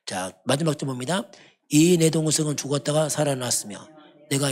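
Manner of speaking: solemn, unhurried Bible reading, slowing at the end; measured pulpit reading; scripture reading. Acted. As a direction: read the father's command from the pulpit. Reads the father's reply.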